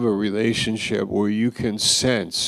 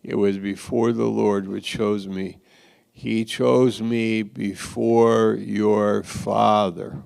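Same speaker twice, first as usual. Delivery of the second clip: "your father" slowed and pressed; pointed emphasis. Retold or imitated. David answering Michal with a pointed jab at her father. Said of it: "he said it like this".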